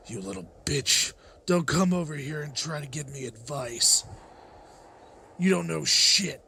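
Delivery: contained, seething rebuff; angry but held in, not shouted; bitter anger. Acted. Grieving man lashes out at adviser.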